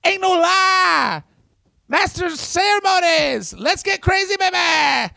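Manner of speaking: high, slow shouted promo voice; Superstar Billy Graham promo. Retold or imitated. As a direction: yell it like a seventies wrestling promo. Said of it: "You see why they're like".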